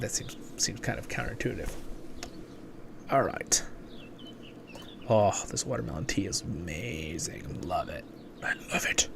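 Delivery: soft breathy whisper. Real, not acted. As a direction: whisper so no one wakes. Whispering all through.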